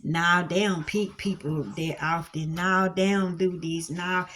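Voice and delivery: mock self-doubt; whiny excuses. Listener making doubtful excuses about lacking education, low and soft. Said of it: "what you'll sit there and do".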